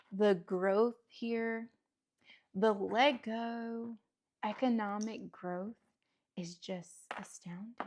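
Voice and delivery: slow, lightly pompous pundit, barely changed from her own voice; a hint of a TV economist pontificating; playing economist with mild gravity, slowed right down; mock economist. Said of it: "Do I sound like an economist?".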